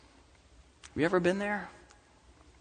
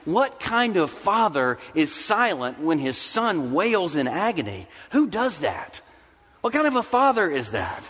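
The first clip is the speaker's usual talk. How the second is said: higher-pitched protest to a silent father; retold cry of bewildered protest; crying out against God; 5 semitones higher than usual. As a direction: demand an answer from God, imitating his cry. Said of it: "crying out to the Lord, even, even crying against the Lord".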